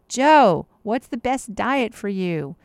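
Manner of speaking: loud call of the name, then a slow question; calling Joe. Pretend. Doctor calling a pretend patient Joe, loud then slow. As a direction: call out to Joe and ask him slowly. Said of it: "let's pretend your name is Joe".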